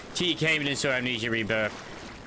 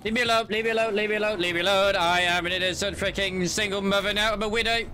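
scared horror game streamer; 5 semitones higher than usual. Real, not acted. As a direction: beg it to leave you alone. Chased by a monster.

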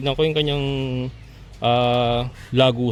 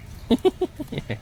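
high giggle; 13 semitones higher, 5 dB quieter than usual. Acted. Laughing in high voice.

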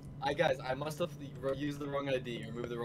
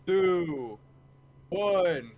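countdown; 2 semitones higher, 6 dB louder, much slower than usual. Real, not acted. Counting down the release.

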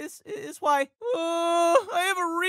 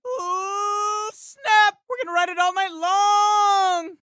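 hyped shout; slower than usual. Acted. Teen pumped after winning, hyped shout. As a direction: ride the hype all night.

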